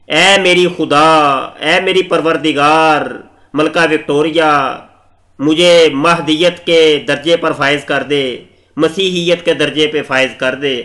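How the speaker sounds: slow, drawn-out mock supplication; mock pleading. Imitating Mirza begging Queen Victoria for a title, mock pleading. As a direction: imitate a grovelling prayer, stretching the opening invocations. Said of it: "वो गिड़गड़ा के उसने".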